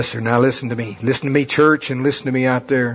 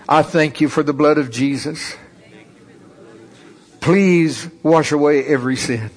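prayer. Shown as a demonstration. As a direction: lead them gently through the prayer. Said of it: "Just say this prayer with me".

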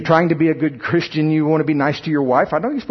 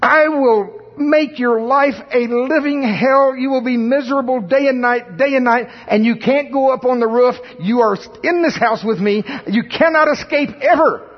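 high, shrill-free mock nagging wife, much higher; nagging woman voice; 9 semitones higher than usual. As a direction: ham up a tormenting nag's threats. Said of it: "it is going".

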